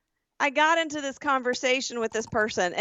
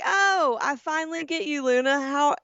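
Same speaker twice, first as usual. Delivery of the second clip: voicing the scammer; 5 semitones higher, slower than usual. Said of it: "she's like".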